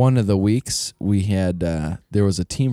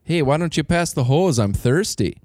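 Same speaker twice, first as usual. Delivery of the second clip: a mock hockey-player Canadian accent, pitched up; loud Canadian accent; 5 semitones higher than usual. Hockey player taunting the Florida team, in a mock Canadian accent. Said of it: "we just talked like this as loud as we could".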